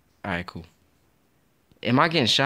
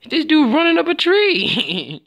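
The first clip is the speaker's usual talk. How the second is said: laughing; 6 dB louder, slower than usual. Real, not acted. Laughing at glitchy NPC.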